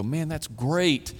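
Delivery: lightly mocking awe; mock wistful. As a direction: play the wishful reader. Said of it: "I think we read verses like these".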